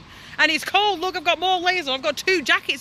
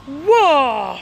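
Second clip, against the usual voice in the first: loud surprised shout; startled whoa; 5 dB louder than usual. Real, not acted. Activist startled by a noise at the gate, a loud whoa.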